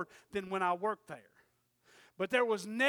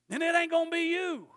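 rising, louder threat to the boss; 6 semitones higher, 7 dB louder than usual. Retold or imitated. Threatening the boss across the desk, rising and louder. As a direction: push it out as a warning.

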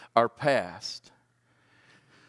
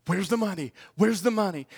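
higher, pressing demand; demanding wife; 8 semitones higher than usual. Retold or imitated. Wife hounding him for the power bill, mock demanding. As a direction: mimic a wife pressing for money. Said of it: "She says".

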